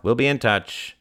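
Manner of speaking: offhand brush-off; careless. Acted. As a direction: dismiss her casually. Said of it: "said the young man carelessly".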